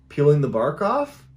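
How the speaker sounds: hesitant answer rising like a question; tentative answer. Retold or imitated. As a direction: offer it unsurely, lifting the last word. Child unsure how to answer stranger.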